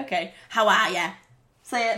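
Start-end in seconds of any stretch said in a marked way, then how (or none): 0.5-1.1 Boston greeting, no R; Boston accent. Acted. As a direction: run it together in a Boston accent. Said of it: "how are you is how are ya".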